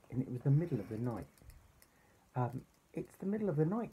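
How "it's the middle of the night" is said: higher-pitched, put-out complaint; a touch of grumpy storybook duck; mild grumble. A narrator's reading. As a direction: grumble it as a woken-up toy. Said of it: "grumbled Duck".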